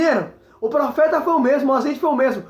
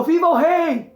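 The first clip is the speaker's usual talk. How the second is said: raised, punchy cry, the crowd hailing a king; mock crowd cheer; 3 semitones higher, 3 dB louder, slower than usual. Preacher acting out the crowd cheering Saul, mock cheer. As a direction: hail the king as the whole crowd would, half-voiced. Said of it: "todo mundo gritou".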